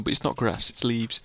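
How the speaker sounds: soft whisper, unvoiced; a quick whispered correction; whispered aside. Real, not acted.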